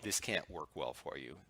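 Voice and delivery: softly, as if sharing a secret; a soft, low-volume plea to a caller; hushed confiding. Retold or imitated. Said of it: "And I'll say".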